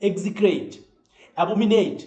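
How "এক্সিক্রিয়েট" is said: এক্সিক্রিয়েট said "ek-si-kreit", falling at the end; pronunciation model. Shown as a demonstration. Teacher repeating a hard word for students, এক্সিক্রিয়েট as "ek-si-kreit". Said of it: "pronunciation".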